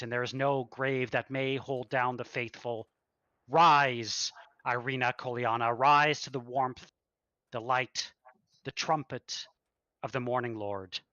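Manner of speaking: an abbot calling the dead to rise; booming sermon. Acted. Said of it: "velvety smooth, a rehearsed speech".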